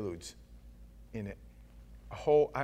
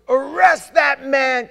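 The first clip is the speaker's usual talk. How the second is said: huge drawn-out shout, high and loud; king's shouted command; 11 semitones higher, 15 dB louder, much slower than usual. Acted. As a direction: bellow it like an enraged king. King bellows in Bible retelling.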